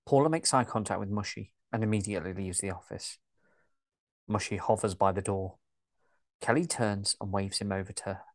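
even, steady story narration; calm audio-drama narrator; scene narration. A narrator's reading. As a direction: read the stage directions like a narrator.

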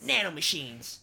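slow, drawn-out game villain quote. Acted. Friends trading video game quotes, drawn out. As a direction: stretch it out like a catchphrase.

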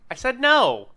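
loud, high, laughing protest; insistent protest. Real, not acted. Player protests the ruling to the GM, loud and high. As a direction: push back hard, half laughing.

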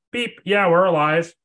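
high loud radio voice with beep; radio reply. Pretend. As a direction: answer over a crackly radio. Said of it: "You'd be like".

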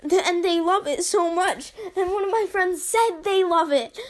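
amused reread. Shown as a demonstration. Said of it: "I just find this funny".

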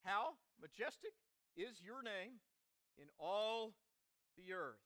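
phrase by phrase, pausing between; leading group recitation. Shown as a demonstration. Preacher to congregation, say it with me, paced for joining in. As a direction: lead them through it in short, separated phrases. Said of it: "say it with me".

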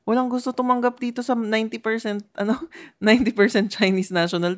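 mock TV reporter. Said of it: "para siyang reporter talaga eh".

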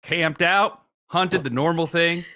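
put-on old bushwhacker voice. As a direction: read it as a grizzled woodsman, baffled. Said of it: "use a different voice for each reviewer".

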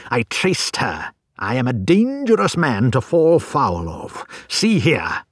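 loud, menacing bully; menacing threat. Acted. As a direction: threaten him loudly. Visitor threatens, bends poker.

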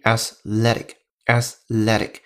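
"athletic" said slowly, stressed on the middle syllable LET; slow teaching repeat of "athletic", ath-LET-ic; pronunciation demo. Shown as a demonstration. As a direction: model "athletic" twice, carefully, leaning on LET. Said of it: "注意它的发音".

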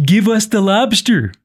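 attempted Canadian accent, lightly put on; a hint of mock Canadian. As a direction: quote him in your best Canadian accent. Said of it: "that's my best Canadian accent".

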